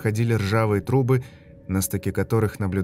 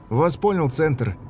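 soldier's radio reply; 5 semitones higher, slower than usual. Acted.

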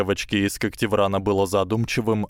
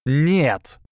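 fiery outburst; 6 semitones higher, 4 dB louder than usual. A narrator's reading. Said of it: "взметнулась Трейси".

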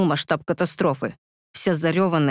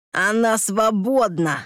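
put-on lisping beaten drunk; 4 semitones higher, slower than usual. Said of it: "прошепелявил урод".

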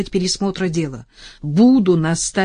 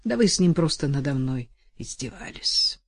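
impotent fury. Acted. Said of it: "думала в бессильной злобе".

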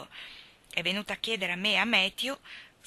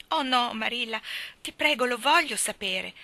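a touch higher, pleading and sorry; contrite exclamation; 4 semitones higher, 4 dB louder than usual. Acted. Anna begs Marilla to tell her, mildly contrite. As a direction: beg to hear it, a little contrite. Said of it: "esclamò Anna con aria contrita".

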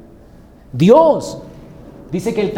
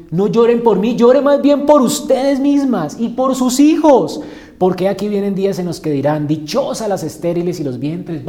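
Jesus speaking; 3 semitones higher, 5 dB louder than usual. Acted. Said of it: "Dice Jesús".

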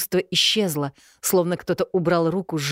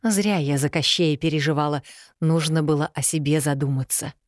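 plain reading voice

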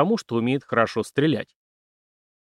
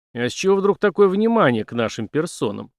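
a sharp, louder, higher demand; sudden anger; 5 semitones higher, 4 dB louder than usual. Acted. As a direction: flare up at the police chief. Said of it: "Неожиданно разозлился Дик".

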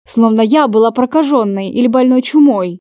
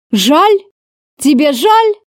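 a sneering, higher echo of her apology; ruthless smirk; 5 semitones higher, slower than usual. Acted. Lover mocking her apology with a cruel smirk. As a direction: smirk as you throw her word back. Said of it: "Безжалостно ухмыльнулся он".

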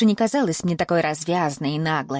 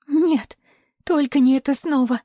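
high, louder woman's terrified cry; terrified pleading; 8 semitones higher, 4 dB louder than usual. A narrator's reading. Captive woman cries out in terror at more torture, high. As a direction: cry out in dread of more pain.

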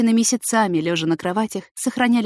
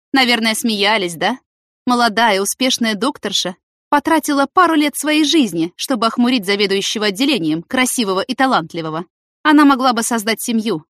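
bitter, sarcastic tirade, louder; trembling with spite; 5 semitones higher, 5 dB louder than usual. Acted. Jealous colleague lashing out at the couple, louder and bitter. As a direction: spit it out shaking with jealous rage. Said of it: "Ольга просто тряслась от злобы".

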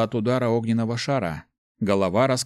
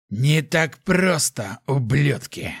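strained, defiant rasp, pitched up; hoarse, unnatural voice; 4 semitones higher, much slower than usual. A narrator's reading. Wounded hunter defying his attackers, in a voice not his own. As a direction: rasp it slowly at the enemy. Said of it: "не своим голосом прохрипел он".

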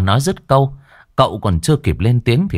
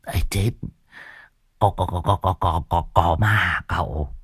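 mock fright; 4 semitones lower, 6 dB quieter than usual.

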